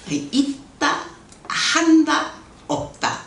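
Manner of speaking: 있다, 한다, 없다 as three separate beats; three-word title, spaced out. Shown as a demonstration. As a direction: pause between 있다, 한다 and 없다, lifting 한다. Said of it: "이렇게 하면 외우기 쉬울 것 같아요".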